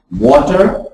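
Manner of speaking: "water" opened with a rounded oo. Shown as a demonstration. Teacher demonstrating "water" for the class, rounded oo. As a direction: start "water" with lips rounded to oo. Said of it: "Like, for example".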